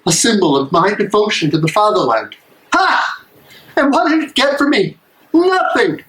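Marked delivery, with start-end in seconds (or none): 2.7-6.0 sharp, higher bitter scoff; bitter outburst. Acted. Soldier scorns his useless medal in bitter anger. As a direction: spit it out in disgust.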